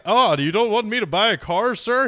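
sneering Eastern European dealer asks sir; Eastern European accent. Retold or imitated. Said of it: "Can you do Eastern European accent again?".

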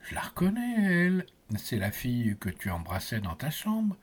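hushed, breathy whisper to a twin. Acted. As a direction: whisper it as a secret.

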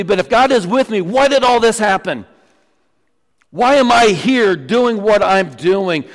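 protesting questions. Acted. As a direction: act out a frustrated doubter questioning God. Voicing Gideon's anguished protest to God.

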